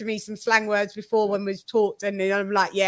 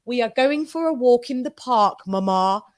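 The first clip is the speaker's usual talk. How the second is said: put-on posh kid; 2 semitones higher than usual. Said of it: "would speak like this".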